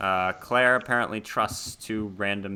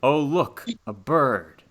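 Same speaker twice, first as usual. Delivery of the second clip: higher put-on inner voice; distracted voice popping into someone's head; lightly voiced intrusive thought; 4 semitones higher, 4 dB louder, slower than usual. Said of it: "a voice in your head that says".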